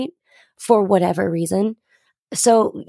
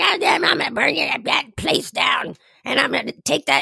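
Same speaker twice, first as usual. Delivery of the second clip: put-on drunk old man voice, higher; 6 semitones higher than usual. Retelling threats by an old man on the street: imitating Terry, drunk old man. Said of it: "He's this old man that's always drunk that's like".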